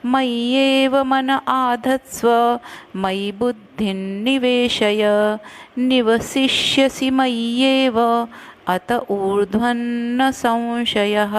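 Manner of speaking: slow, measured chanting of the verse; Sanskrit shloka recitation. Shown as a demonstration. Teacher reciting the full shloka slowly to students. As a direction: recite each syllable carefully for students. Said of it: "अब पूरा श्लोक मैं पढ़ती हूँ".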